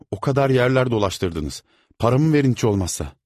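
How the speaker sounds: loud, high tearful plea; pleading. A narrator's reading. Crying boy begging the servant for his pay. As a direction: beg for the money. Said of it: "diye yalvardı".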